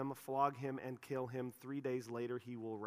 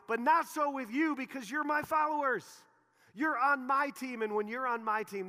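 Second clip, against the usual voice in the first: rally the team; preaching at full force; 9 semitones higher, 8 dB louder than usual. Real, not acted. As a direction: passionate preacher voice.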